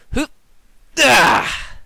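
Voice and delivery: short hoot, then a loud high "ah"; effortful yelp. Pretend. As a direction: act out a strike with vocal effort noises. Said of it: "You're like".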